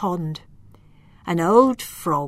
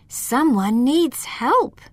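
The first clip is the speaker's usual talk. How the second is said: higher, slow concerned voice; a small voice worried for someone; worried elf; 6 semitones higher, 4 dB louder, slower than usual. Acted. Lila hearing groans in the cave, slow and worried. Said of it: "she thought".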